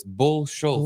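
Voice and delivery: "Bull Schultz" with Bill turned into Bull; corrected first name. Shown as a demonstration. Co-host correcting the introduction, first name said as Bull. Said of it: "You pronounced the first name wrong".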